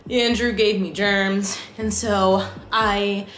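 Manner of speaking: stuffy congested voice; blocked nose. Real, not acted. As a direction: speak through a stuffed-up nose. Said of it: "I'm congested".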